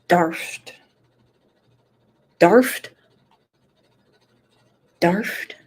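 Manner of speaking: "Darft" with a long British ah; trying out "Darft" as taught; Kat's pronunciation. Shown as a demonstration. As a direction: stretch "Darft" out, testing it. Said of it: "Kat's telling me how to say it".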